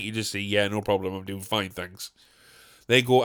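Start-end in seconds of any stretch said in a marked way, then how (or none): 0.4-2.1 low, soft, mild brush-off; dutifully polite. Acted. Man answering politely while screaming internally, subdued politeness. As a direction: keep the pleasantry small and quiet. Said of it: "just to be polite".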